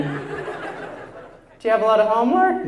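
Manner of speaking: slow motherly question; mom. Pretend. Mom checking on homework, motherly voice.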